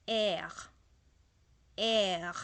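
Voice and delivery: R rolled hard and loud in the throat; French R. Shown as a demonstration. Teacher drilling the French R loudly for the class.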